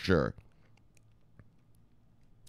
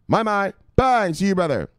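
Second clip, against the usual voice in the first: hype shout; 6 semitones higher than usual. Pretend. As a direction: bark it out like a hype man. Hyped catchphrase shout at stream.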